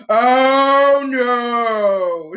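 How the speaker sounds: loud alarmed cry; Rabbit shouting. A narrator's reading. Rabbit shouting as Pooh charges toward him, loud. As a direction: shout in dismay. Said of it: "shouted Rabbit".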